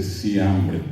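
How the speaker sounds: siambre with S instead of F; child's S for F. Shown as a demonstration. Teacher showing how the child says siambre. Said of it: "dice siambre".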